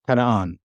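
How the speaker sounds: "kana'an" with a short vowel between k and n; helping vowel. Shown as a demonstration. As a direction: let a brief a link K to n in "kana'an". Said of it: "you'd have the helping".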